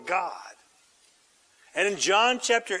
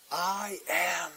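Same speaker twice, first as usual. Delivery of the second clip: low solemn; 4 semitones lower, 7 dB quieter, slower than usual. Acted. Jesus declaring quietly.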